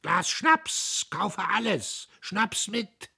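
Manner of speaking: put-on high, loud drunken yell; loud shouted outburst; shouting. A narrator's reading. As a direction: bellow it across the empty engine room. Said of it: "schrie der Premierleutnant".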